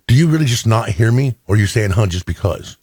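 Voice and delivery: mildly fed up, as retold; irritated wife, imitated. Wife asking husband about his huh, mild imitated irritation. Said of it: "she's getting so irritated with me".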